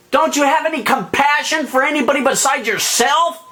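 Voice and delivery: unload on the judge as if it were real; imagined angry retort. Pretend.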